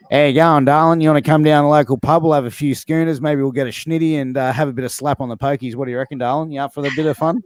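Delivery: a hint of a cheeky larrikin chatting up a girl at the pub; mild imitation of a bogan inviting a darling down for schooners; bogan talk. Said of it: "a bogan will talk like".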